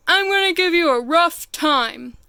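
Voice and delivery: lightly voiced big bully rhino, mock menace; a hint of a gruff storybook bully. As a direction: tease like a pushy big beast. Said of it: "said the rhinoceros".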